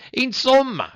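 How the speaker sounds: very high puppet outcry; tearful Pinocchio. A narrator's reading. Puppet bursts into tears refusing medicine, acted wail. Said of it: "gridò Pinocchio dando in uno scoppio di pianto".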